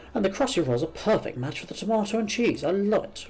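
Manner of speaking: lively, swooping storybook delivery; lightly acted gushing enthusiasm; lightly voiced delighted game character. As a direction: relish it like a delicious treat.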